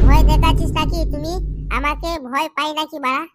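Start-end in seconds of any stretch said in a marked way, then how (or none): 0.1-1.3 loud, defiant yell; angry shout. Acted. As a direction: throw the challenge back loudly. Heated mock quarrel. (রেগে চেঁচিয়ে)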